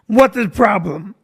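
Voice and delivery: put-on slow, blunt Russian-accented question; a hint of the tall Russian coach, puzzled. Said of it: "He's just Russian".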